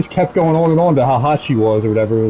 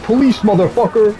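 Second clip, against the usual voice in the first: high, slow cop bellow through a megaphone; a cop barking through a megaphone; mock megaphone cop; 9 semitones higher than usual. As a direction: play a cop yelling through a bullhorn. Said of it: "on a megaphone and be like".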